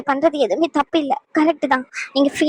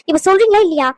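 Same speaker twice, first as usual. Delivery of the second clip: angry demand; 5 semitones higher, 4 dB louder than usual. Acted. Wife demands an answer.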